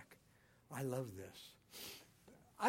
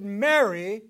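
loud commanding call of a name; 3 semitones higher, 14 dB louder than usual. Acted. Jesus calling Mary with command. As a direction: call her with authority. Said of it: "it was a commanding voice".

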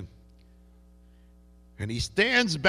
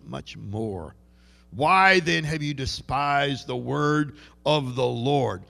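stern God voice; 3 semitones higher, 4 dB louder than usual. Retold or imitated. God rebuking David.

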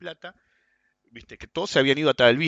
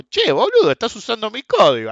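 sharp high-pitched indignant yell; rude, angry; 8 semitones higher, 7 dB louder than usual. Retold or imitated. Trader accusing him of copying code, mock angry. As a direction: snap it out like an offended rival. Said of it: "así, mal".

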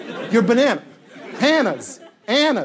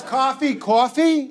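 "coffee" with a New York vowel; New York accent; 3 semitones higher, slower than usual. Retold or imitated. Dad saying "coffee" in a borrowed New York accent. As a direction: say "coffee" like a mock New Yorker. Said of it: "even though he's not from New York".

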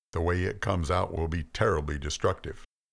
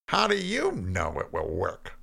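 skeptical; 12 semitones higher than usual. Acted. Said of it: "still in his skeptical voice".

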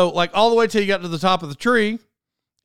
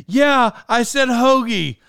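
wife quoted; 7 semitones higher, 4 dB louder, slower than usual. Retold or imitated. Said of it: "she says".

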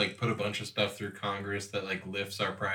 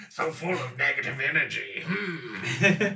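laughing through pain; 5 semitones higher, 4 dB louder, slower than usual. Pretend. Laughing, still voicing the lizard.

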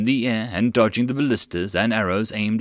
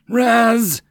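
calling out; 12 semitones higher, 6 dB louder than usual. A narrator's reading. Dragon calling fallen partner.

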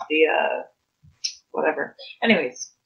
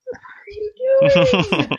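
hushed disbelief; 3 dB louder than usual. Acted. Player voicing Amelia at the back of the pack, hushed mock disbelief.

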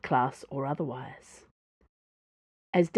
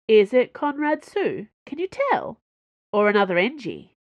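anxious; 4 semitones higher, 5 dB louder than usual. Acted. Dana anxious questions.

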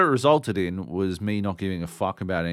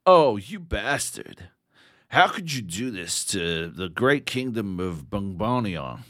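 slow, stilted villain line, hammed-up; stilted game voice acting; 4 dB louder, slower than usual. Mocking a game cutscene, stilted hammy voice acting. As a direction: overact a stiff dubbed cutscene hero, slowly. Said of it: "I just kept doing the same voice".

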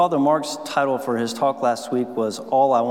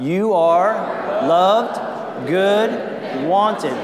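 ringing, emphatic call to the crowd; called out louder; much slower than usual. Shown as a demonstration. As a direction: belt each word out to the room. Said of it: "Let me hear you say it one more time".

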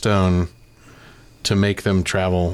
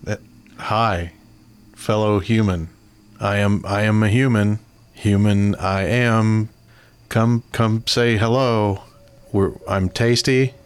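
robot faking human. Acted. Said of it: "I'll use the voice".

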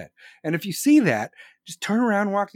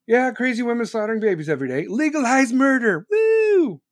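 mock celebration building to a high loud whoop; hammed-up rally cry, rising to a shout; sarcastic cheering; 6 semitones higher, 4 dB louder than usual. Sarcastic cheering of same words.

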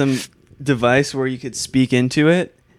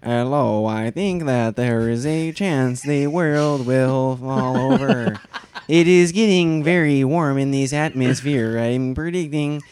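robotic Stephen Hawking impression; slower than usual. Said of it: "that's how he sounds".

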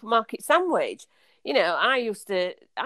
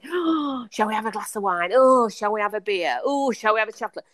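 mock excited; 3 semitones higher than usual. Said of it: "person's voice changes and everything".

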